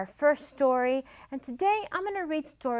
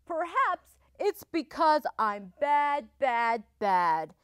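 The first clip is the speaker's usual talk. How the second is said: lonely wolf voice; 2 semitones higher, 4 dB louder than usual. Acted. Wolf's lines in read-aloud.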